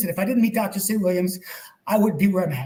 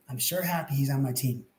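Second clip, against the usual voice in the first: said to myself; 5 semitones lower, 6 dB quieter than usual. Retold or imitated. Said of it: "I swear I said to myself".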